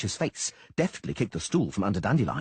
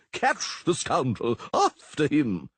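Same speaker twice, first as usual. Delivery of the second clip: ordering chase; 6 semitones higher, much slower than usual. Acted.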